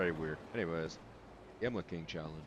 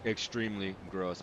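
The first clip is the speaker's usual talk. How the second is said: talking through a mouthful of spit; mouth full of saliva; 6 dB quieter than usual. Real, not acted. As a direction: wet mouth, trying not to spit. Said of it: "my mouth is full of fucking saliva right now".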